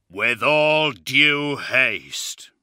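slow, heavy, rumbling giant's voice; deep rumbling voice. Acted. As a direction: rumble it out like a massive warrior. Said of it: "he said in a deep rumbling voice".

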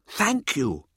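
high, slow, showboating lecturer; Mirza's voice. A narrator's reading. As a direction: relish every word like a showman. Narrator voicing Mirza.

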